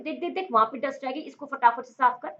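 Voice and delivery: quick-fire mock ordering about; hurried nagging. Someone pointing out leftover dust, hurried nagging. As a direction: rattle it off like an urgent household order.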